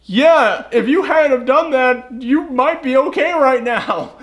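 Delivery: mock scolding nurse.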